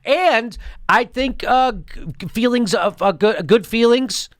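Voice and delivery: lightly mocking a vague politician. Mocking a Democrat's vague answer. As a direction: parrot the empty answer back. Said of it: "Why do they talk like this?".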